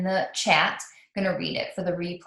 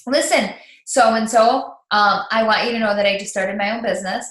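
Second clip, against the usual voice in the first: 1 calling a friend; 4 dB louder than usual. Shown as a demonstration. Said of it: "you can ask them".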